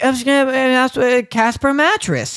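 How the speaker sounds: lightly voiced child doing an ad; imitating nephew sponsor read. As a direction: play a little kid plugging a product. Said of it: "he's just like".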